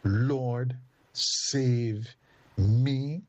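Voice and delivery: rising cry, loudest on me; powerful prayer. Shown as a demonstration. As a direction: call it out with growing force. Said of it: "a powerful prayer".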